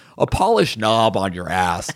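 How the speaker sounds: ordinary talk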